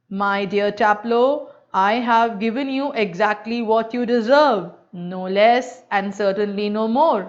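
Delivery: a hint of the old master's gentle throaty voice; imitating a throaty teacher. Student mimics his teacher's voice to another teacher, lightly throaty. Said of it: "A very gentle, rather throaty voice".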